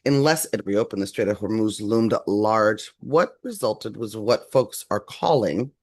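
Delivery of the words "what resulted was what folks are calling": slow, drawn-out sarcasm; sarcastic. Real, not acted. Host introduces what folks call a ceasefire, sarcastically. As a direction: stretch it out with open sarcasm. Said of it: "y'all hear my sarcasm".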